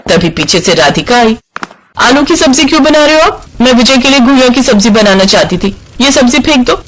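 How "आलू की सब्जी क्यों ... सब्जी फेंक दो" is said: bossy, higher complaint; higher scolding demand. Acted. Radhika bosses Mamta about the sabzi, higher scolding. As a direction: order the dish thrown out.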